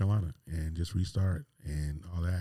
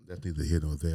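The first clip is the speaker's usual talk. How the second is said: ordinary talk, nothing marked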